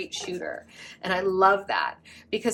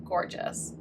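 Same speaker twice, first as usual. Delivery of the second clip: whisper; 6 dB quieter than usual. Real, not acted. Repeated praise fades to whisper.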